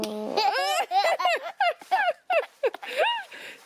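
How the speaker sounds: squealing giggle; a high burst of delighted laughter. Real, not acted. Laughing at baby.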